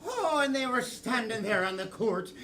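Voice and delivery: put-on lilting Irish storyteller; Irish accent. Improviser narrating homesick Gabriella's thoughts, in an Irish accent. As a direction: tell it in a stage Irish brogue.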